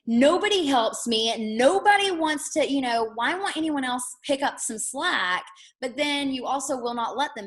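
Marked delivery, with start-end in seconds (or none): 0.0-5.4 a mock put-upon gripe; exasperated complaint. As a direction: complain that nobody helps you. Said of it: "you're like".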